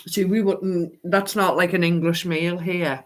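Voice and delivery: talking with mouth full; words round a bite of food. Real, not acted. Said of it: "excuse me for eating with my mouth full".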